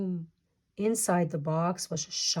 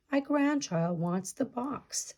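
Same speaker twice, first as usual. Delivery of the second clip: chief voice; 6 semitones higher than usual. Acted. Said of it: "said the Sky Chief".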